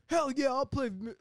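high, loud "hell yeah"; eager musician. Acted. Vince Vaughn agrees to play the request, excited. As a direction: jump in keenly, loud and high. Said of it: "Miss Vaughn's like".

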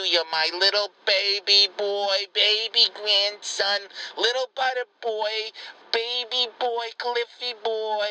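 mock-doting grandma cooing at her grandson. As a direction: coo at him like he's a baby. Grandma coos over her grandson.

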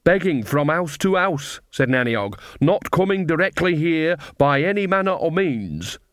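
high, fake-innocent old crone; sly old woman protesting innocence. Nanny playing innocent.

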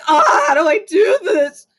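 laughing, crying mock whine; mock despair. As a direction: wail it in comic helplessness. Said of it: "was like".

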